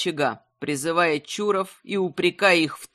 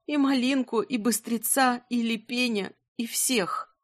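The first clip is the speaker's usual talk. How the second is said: tragic heroine sorrow; 4 semitones higher than usual. Acted. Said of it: "едва сумела выговорить".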